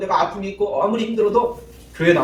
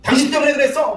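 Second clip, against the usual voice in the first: mock blaming snap, pitched higher; 8 semitones higher, 3 dB louder than usual. Spouse blaming partner, lightly acted complaint. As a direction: throw the blame at them. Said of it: "불평하고 원망하고".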